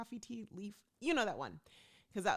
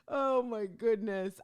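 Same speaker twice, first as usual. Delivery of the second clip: exasperated; 5 semitones higher, 8 dB louder, slower than usual. Real, not acted. Exasperated exclamation at story.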